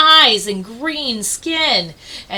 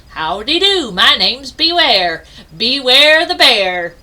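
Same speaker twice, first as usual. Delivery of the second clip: friendly bear voice; 6 dB louder than usual. Acted. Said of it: "a bear thudded up to the penguins and announced".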